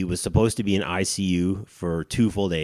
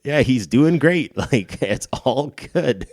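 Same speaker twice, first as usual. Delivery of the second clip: surgeon quoted; 8 semitones higher, 7 dB louder than usual. Retold or imitated. Surgeon voiced, laughing.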